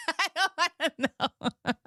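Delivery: high, helpless giggle through the words; laughing. Real, not acted. Wife retelling husband's refusal, laughing through it. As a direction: crack up while getting the line out.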